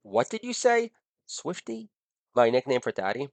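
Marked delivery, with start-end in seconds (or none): 0.0-1.9 sassy retort. Retold or imitated. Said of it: "I could use leverage and say".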